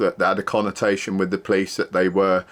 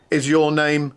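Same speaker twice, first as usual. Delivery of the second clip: mocking the officer; 7 semitones higher than usual. Officer asking the doorman's name, mock-prim high voice. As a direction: mimic her prissy question. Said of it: "patronising lady police officer".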